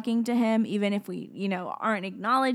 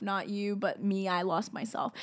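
much softer self-correction; quiet aside; 8 dB quieter than usual. Real, not acted. Speaker admitting losing the thread, quiet aside. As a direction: drop the voice, almost to yourself.

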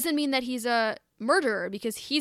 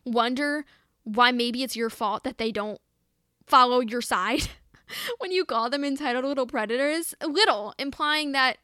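frustrated; 3 semitones higher, 5 dB louder than usual. Real, not acted. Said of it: "I'm getting frustrated here".

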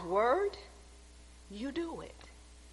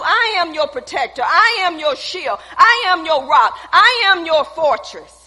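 voice of God; 6 dB louder than usual. Acted. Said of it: "God is telling you".

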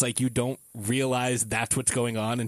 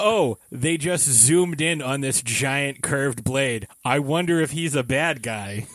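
mock naive wonder; 3 dB louder than usual. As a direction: play innocently oblivious to the obvious villain. Mocking obvious villain foreshadowing.

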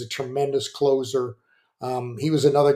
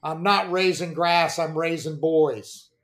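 slowed-down, lightly booming father; a hint of a big billowing dad, taking his time. Dad telling mom to let the boys play, lightly billowing voice. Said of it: "in his big billowing voice".

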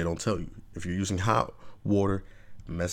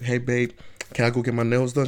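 a little higher, sweet asking voice; sweet girlfriend plea; 4 semitones higher, 3 dB louder than usual. Retold or imitated. Girlfriend asks boyfriend for nails, lightly sweet. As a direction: ask babe nicely. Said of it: "you're like".

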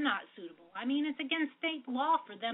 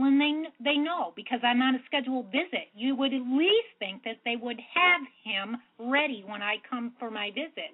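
louder, insistent complaint; raised voice, pressing the point; speaking up; 2 semitones higher, 5 dB louder than usual. Real, not acted. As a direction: speak up firmly to be heard. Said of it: "could you speak just a little bit louder".

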